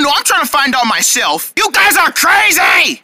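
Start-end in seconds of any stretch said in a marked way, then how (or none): 1.6-3.0 high, drawn-out holler; yelling. Acted. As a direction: yell it out slowly. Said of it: "Stop yelling!".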